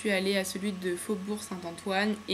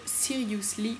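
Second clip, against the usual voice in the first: English shade name in a French accent; proudly attempted English accent; 5 dB quieter than usual. Real, not acted. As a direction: say it with your best French-speaker's English accent. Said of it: "mon accent anglais".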